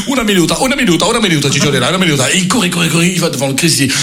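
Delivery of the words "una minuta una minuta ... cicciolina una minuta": mock Italian. Priest fake Italian.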